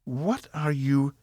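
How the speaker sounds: slow, thrown-off question; startled. A narrator's reading. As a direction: cut off mid-question. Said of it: "Evie began".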